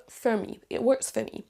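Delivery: FOR shrunk to 'fuh' before ME; teacher's model, WORKS as 'wurks', FOR as 'fuh'; reduced FOR. Shown as a demonstration. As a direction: say 'fuh me' with no O in FOR. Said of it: "Là ici, c'est réduit".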